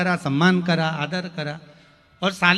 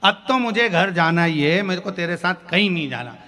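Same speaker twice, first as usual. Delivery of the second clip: angry; 5 dB louder than usual. Retold or imitated. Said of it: "दोनों में भयंकर लड़ाई हो गई".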